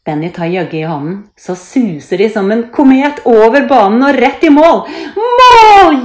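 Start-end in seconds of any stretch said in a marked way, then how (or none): 1.4-4.9 louder, higher, racing towards the goal; excited story narration. A narrator's reading. 5.2-6.0 very high, loud goal cry; jubilant cheer. A narrator's reading. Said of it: "jubler Benny".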